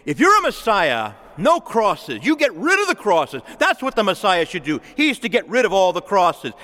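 mock the crowd's scoffing; scoffing mockery. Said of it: "they're scoffing and saying".

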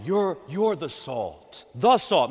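slow with "the salt" pressed; slow emphatic "the"; stress on "the". Real, not acted. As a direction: lean on "the" in "the salt". Stressing the definite article.

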